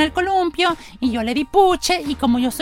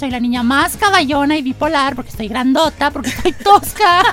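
put-on girl character voice. S0 plays seven-year-old Juanita.

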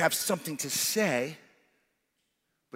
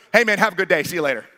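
louder, brisk, repeated dismissal; brushing him off; 7 dB louder, much faster than usual. Retold or imitated. Wes getting rid of the salesman, brisk and louder. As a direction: shoo him away cheerfully. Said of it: "Wes goes".

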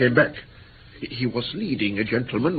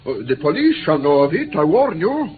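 louder, rising to a high warning; indignant protest; 4 semitones higher, 3 dB louder than usual. Acted. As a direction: protest hotly and threaten them with the police. Captive protests his detention.

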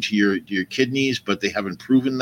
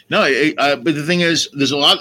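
normal talking voice

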